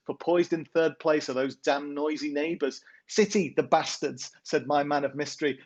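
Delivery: rhythmic, sing-song verse reading; poem recital. Acted. Poet reads his weekly football poem to the podcast hosts, rhythmic recital. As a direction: read the rhymes with a steady lilt.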